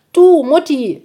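hoch und laut, Kinderstimme; aufgeregter Igeljunge. Acted. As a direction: ein eifriges Kind ruft. Borstel ruft aufgeregt.

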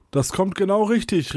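excited call. A narrator's reading. Kunibert jumps up as the herd charges, calling out excitedly. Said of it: "rief Kunibert und sprang auf".

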